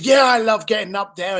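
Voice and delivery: imitating a caller's budding enthusiasm; light up a little at the topic; excited. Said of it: "now he's excited".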